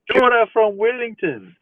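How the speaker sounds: put-on high-pitched greeting, slightly South African accent; South African-sounding accent. Streamer saying hello from Wellington, accidental South African-sounding accent. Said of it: "accent that sounded a bit South African".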